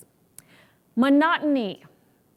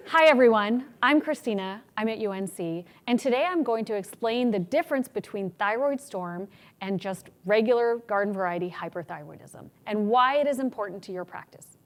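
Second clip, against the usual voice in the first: strong confident opening. Shown as a demonstration. Lecturer showing the better way to open a talk, confidently. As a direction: take command of the room. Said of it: "What if instead we say".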